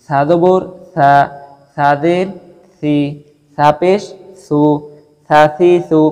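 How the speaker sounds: সা সি সু said thin and light; teacher drilling thin s syllables slowly; light recitation drill; light Arabic letters. Shown as a demonstration. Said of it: "সাটা একটু পাতলাভাবে পড়বো".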